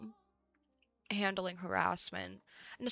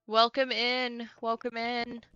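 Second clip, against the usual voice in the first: excited welcome; 4 semitones higher, 5 dB louder, slower than usual. Real, not acted. Greeting new chatter excitedly.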